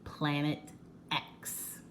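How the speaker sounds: softly, letting the name hang in mystery; hushed reveal. A narrator's reading. Reading to children, unveiling the mystery planet softly. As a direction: drop the voice for the big secret.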